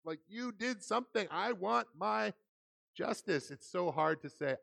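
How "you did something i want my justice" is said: higher, mock-indignant demand; hammed-up indignation, drawn out at the end; fired up. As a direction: act out someone worked up and demanding. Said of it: "when you're fired up".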